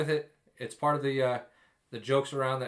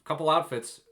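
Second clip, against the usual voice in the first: 1 mock tactless remark; 3 semitones higher than usual. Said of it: "Don't say".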